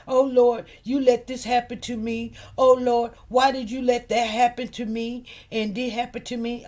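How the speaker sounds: mock lament. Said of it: "we be like".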